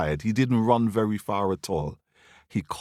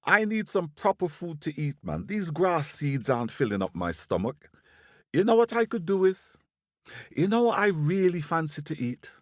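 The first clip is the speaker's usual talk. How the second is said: high, excitable squirrel voice; boastful squirrel; 7 semitones higher than usual. Acted. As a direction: play a cocky, hungry little squirrel.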